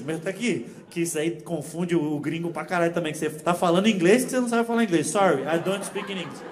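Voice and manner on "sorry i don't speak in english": put-on rehearsed apology in Brazilian-accented English. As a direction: repeat the stock line in Brazilian English. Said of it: "Eu já meto um".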